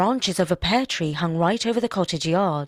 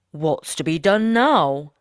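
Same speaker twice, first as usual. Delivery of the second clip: woodman; 5 dB louder, slower than usual. Acted. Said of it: "said the woodman".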